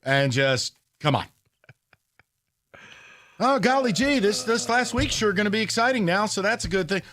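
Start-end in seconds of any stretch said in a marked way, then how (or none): 3.4-7.0 high, mock gee-whiz cheer; sarcastic golly-gee kid voice; wholesome 1950s kid. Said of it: "Yeah, right".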